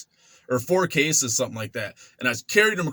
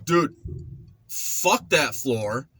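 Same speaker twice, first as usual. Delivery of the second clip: cocky mock defiance, pitched up; smart ass retort; 5 semitones higher, slower than usual. Young inmate mouthing off to the mopper, cocky. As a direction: sneer it like a young punk. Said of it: "And I'm like".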